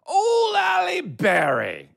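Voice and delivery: high, drawn-out wail of mock discovery; stretched squealing bit payoff; hammed-up punchline shout. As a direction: belt out the pun in a long, high cry. Performing an old pun bit.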